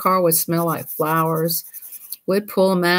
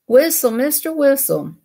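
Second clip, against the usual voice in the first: high calling voice; 7 semitones higher than usual. Real, not acted. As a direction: call the pet, high and bright. Calling the pet.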